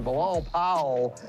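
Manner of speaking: a light hint of a news anchor saying Bilal Powell; Tom Brokaw anchor voice. Host rolls the name off like a network anchor, lightly. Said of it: "You gotta sound like Tom Brokaw".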